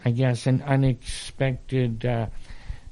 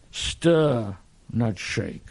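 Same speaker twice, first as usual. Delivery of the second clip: attempted suave spy catchphrase; James Bond; 3 semitones lower, slower than usual. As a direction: lightly imitate a film spy's delivery. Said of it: "that's how he talks".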